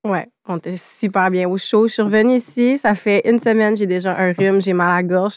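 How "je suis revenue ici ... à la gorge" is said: hoarse from a cold; sore throat voice. Real, not acted. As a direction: speak through a sore throat. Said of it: "si ma voix est bizarre en ce moment".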